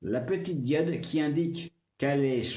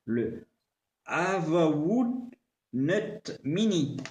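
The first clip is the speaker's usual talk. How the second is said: slow, lightly hammed-up Japanese accent; mock Japanese accent; 2 semitones higher, much slower than usual. Shown as a demonstration. Reading the brand name for viewers in a mock Japanese accent. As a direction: read it out slowly in a makeshift Japanese accent. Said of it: "avec mon super accent japonais".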